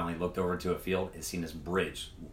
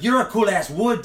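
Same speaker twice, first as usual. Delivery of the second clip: high, loud, slow you're a cool ass wood; slow, loud gang-member approval; loud praise; 10 semitones higher, 8 dB louder than usual. Retold or imitated. Gang members praising the teller, high and loud. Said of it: "They're like".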